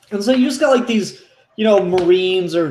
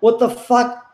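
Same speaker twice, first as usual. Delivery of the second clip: soldiers crying for help, hammed up; mock panicked yelling; 6 semitones higher than usual. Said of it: "screaming and, and yelling for help".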